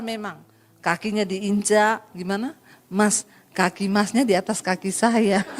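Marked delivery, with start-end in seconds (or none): 2.9-5.5 polite Solo man. Retold or imitated. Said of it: "itu kalau orang Solo".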